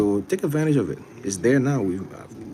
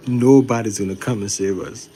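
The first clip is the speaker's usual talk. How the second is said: slow declaration; 5 dB louder, slower than usual. Shown as a demonstration. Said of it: "you gotta say it slow".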